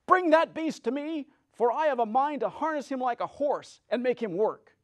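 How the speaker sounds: loud, high wicked witch command. A narrator's reading. Wicked witch ordering the monkeys to destroy strangers, loud and high.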